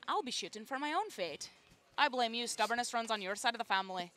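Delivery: lilting Scottish movie line; Scottish accent. Shown as a demonstration. Host quotes her key line from Brave, Scottish accent. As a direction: do a Scottish accent from a cartoon film. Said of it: "give me a Scottish impersonation".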